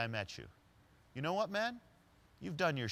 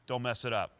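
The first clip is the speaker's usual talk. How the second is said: louder, a firm friendly command; parting warning; 6 dB louder than usual. Retold or imitated. Larry warns the date about the speaker, loud and firm. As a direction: land the advice with a grin.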